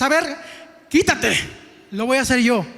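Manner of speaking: exasperated. Retold or imitated. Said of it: "te entra la desesperación y dices".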